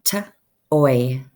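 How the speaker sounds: t-oy, split into sounds; segmented word. Shown as a demonstration. Teacher sounding out "T-oy" for students. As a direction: pull "T-oy" apart into its sounds. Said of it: "Now we go to O Y".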